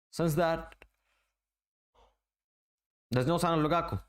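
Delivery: talking through a yawn. Real, not acted. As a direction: yawn mid-sentence. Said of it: "I'm sorry, I'm yawning".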